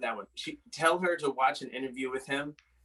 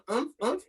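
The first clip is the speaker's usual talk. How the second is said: mock moaning grunts; 8 semitones higher than usual. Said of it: "She was going".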